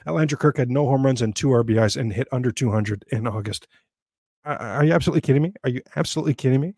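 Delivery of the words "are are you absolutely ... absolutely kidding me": rapid, exasperated disbelief. Real, not acted. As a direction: fire it off fast, can't believe the numbers. Fed-up disbelief at stats.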